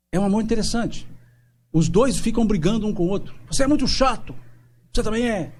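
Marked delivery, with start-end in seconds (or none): 3.5-5.5 put-on high, bickering kids trading jabs; a bickering child's voice, lightly mocked; mock sibling squabble. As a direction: play two squabbling siblings, pitched up. Siblings quarrel acted out.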